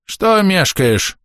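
put-on high, slow cracked old man. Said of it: "надтреснутый голос Захария".

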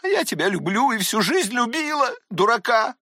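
outraged aunt, voice pitched high; scolding old aunt. Acted. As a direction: lash out at the boy as a furious aunt. Tatyana scolds through tears.

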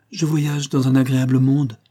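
lightly voiced happy young invalid; a touch of dreamy, sweet happiness. A narrator's reading. Sick niece to her uncle about her agreeable world, sweetly happy. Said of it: "dit Caroline d'une voix douce et heureuse".

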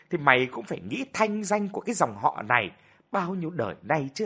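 wailing, scolding lament with swooping pitch; nagging reproach. Acted. Mother lamenting the family's shame, bitter nagging scolding. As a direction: keep grinding away at the disgraced son. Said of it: "Bà vẫn tiếp tục đay nghiến".

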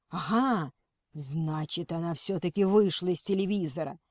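gleeful madman; excited. Acted. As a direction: burst out in crazed delight. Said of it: "бурно обрадовался сумасшедший".

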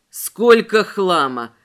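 loud, slow, irritated call from a far corner; fed up, calling out across the basement; irritated shout. Acted. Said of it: "раздражённый голос Мэя". (раздражённо, громко и медленно)

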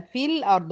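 في الأرض read with the ي dropped, في joined straight onto the لام; الأرض said as fil-ard, no long ي before the لام; reading demo. Shown as a demonstration. Teacher shows students how to join في الأرض. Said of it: "هدخل من الفيه المكسورة على لام الساكنة".

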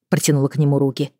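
usual speaking voice

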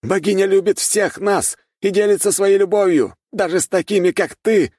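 high, loud devout declaration; the warrior proclaiming his faith; fervent warrior. A narrator's reading. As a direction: preach the goddess's love to an enemy. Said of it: "продолжил воин богини".

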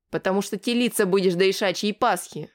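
ordinary delivery

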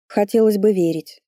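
sulky grumble under the breath; grumbling mutter. Acted. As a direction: mumble it grudgingly. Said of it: "буркнула я". (буркнуть себе под нос)

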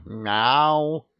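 a lightly done cheeky meow; cat meow. Acted.

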